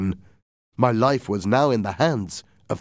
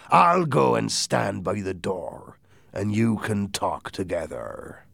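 lightly voiced, slow pirate speech; pirate captain; slower than usual. Silver leaving them to talk, slow and easy. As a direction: drawl it out as a hint of pirate.

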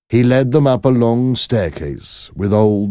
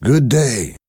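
higher, ringing greeting; hearty greeting; 6 semitones higher than usual. Acted. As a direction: greet him brightly. Defarge greets the prisoner.

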